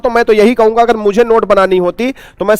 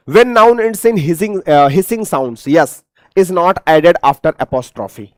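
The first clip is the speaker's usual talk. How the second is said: slow dictation; 4 semitones lower, much slower than usual. Shown as a demonstration. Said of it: "reading rule to students".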